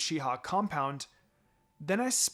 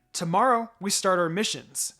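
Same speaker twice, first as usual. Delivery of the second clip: excitedly; 3 semitones higher, 6 dB louder than usual. Acted. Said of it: "she said excitedly".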